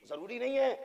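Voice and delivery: high but held-back voice; restrained rising delivery. Shown as a demonstration. Preacher warning the crowd they may not meet, high restrained voice. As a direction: lift "जरूरी नहीं है" high without raising the volume. Same phrase, then repeated loudly.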